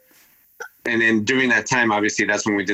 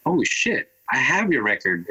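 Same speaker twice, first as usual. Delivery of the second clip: higher-pitched burst of sudden recognition; retold surprised realization; 4 semitones higher than usual. DJ realizing he owns the drummer's record, surprised. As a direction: let the pitch jump as it dawns on you.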